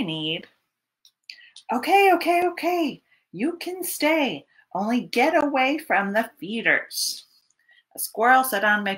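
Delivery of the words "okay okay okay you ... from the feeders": higher, resigned okay; storyteller gives in to the bear; giving in. Pretend. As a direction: cave in with a sigh of defeat. Giving in to squirrel.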